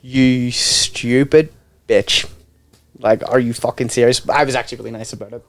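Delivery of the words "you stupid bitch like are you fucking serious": slow, low mock disbelief; acted-out withering judgement; deadpan contempt. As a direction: lay it out slowly and low, pausing before the insult. His imagined reaction to the scam.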